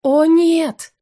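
horrified exclamation at the mirror; exclaiming. Acted. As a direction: gasp out in dismay. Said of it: "воскликнула".

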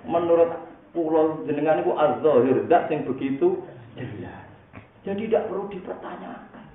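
high, hammed-up tearful complaint; mock weeping plea. Rabi'ah protesting her torment to God, mock-weeping. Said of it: "Wong nangis".

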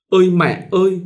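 high, loud mournful wail for mother; wailing cry. A narrator's reading. Bride wailing for her dead mother, high loud cry. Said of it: "tru lên những tiếng não nùng lanh lảnh".

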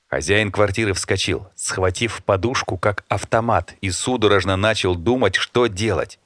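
usual speaking voice

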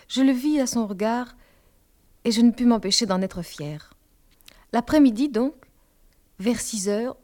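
plain reading voice

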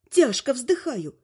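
ordinary delivery, nothing marked

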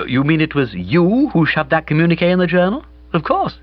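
Bobby's voice. A narrator's reading. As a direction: play Bobby, lively and breezy. Bertie then Bobby exchange.

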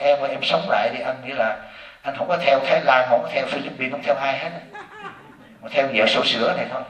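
soft pleading to his wife, laughing; laughing plea. Retold or imitated. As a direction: beg her back with a laugh. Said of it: "con nói". (giọng năn nỉ vợ, vừa nói vừa cười)

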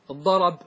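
الضرب with the fatha moved onto the ra, said as darab; transfer demo. Shown as a demonstration. Teacher demonstrating the fatha transfer to the class, clearly voiced. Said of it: "نقلت الفتحة".

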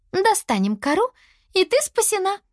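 high-voiced, upbeat reassurance; reassuring. A narrator's reading. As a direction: comfort a friend brightly. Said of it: "успокаивала подругу Лиана". (успокаивая подругу)

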